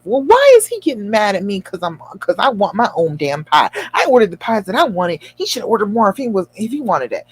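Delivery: mildly indignant retold self-talk; a little defensive. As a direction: argue your own case, slightly huffy. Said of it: "I'm starting to get a little defensive".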